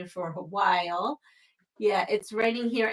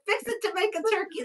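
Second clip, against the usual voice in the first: quick "Fixing to make a turkey" in a light Texas twang, pitched higher; 9 semitones higher, much faster than usual. Retold or imitated. Repeating the phrase to puzzled friends in a light Texas twang. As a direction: toss it off breezily in a Southern lilt. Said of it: "a little bit of a Texas twang".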